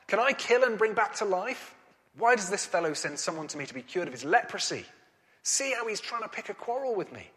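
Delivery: indignant king. Acted. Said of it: "he tore his robes and said".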